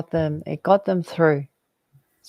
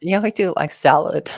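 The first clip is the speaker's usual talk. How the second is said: kind gentle laugh. Real, not acted. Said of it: "I'm laughing 'cause it's so cute".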